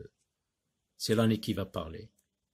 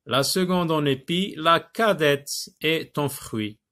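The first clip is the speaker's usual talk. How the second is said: higher, projected recital with lengthened words; poem reading; 4 semitones higher, 4 dB louder than usual. Acted. Teacher rereads the next verse to pupils, raised recital. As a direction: declaim the verse for a class.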